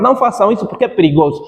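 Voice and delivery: a quick rushed warning, said in one breath; fast first take. Shown as a demonstration. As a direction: rattle it off quickly. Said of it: "Primeiro você falou rápido".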